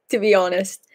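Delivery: a quick unvoiced whisper; whispered aside. Real, not acted. Admitting to viewers she wants a British accent, whispered. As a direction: drop to a breathy secret whisper.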